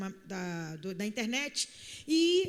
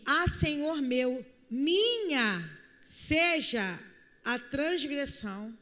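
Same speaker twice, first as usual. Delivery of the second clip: pleading plea; much slower than usual. Acted. Abigail pleading, quoted slowly.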